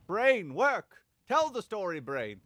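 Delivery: loud, high frustrated shout; yelling at own brain. Real, not acted. Streamer losing his story thread, shouting at himself. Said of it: "what am I doing?".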